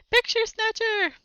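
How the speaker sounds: high shrill-free scream of accusation. Acted. Sister screaming at Wilt as a thief, loud high shriek. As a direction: shriek it at the intruder.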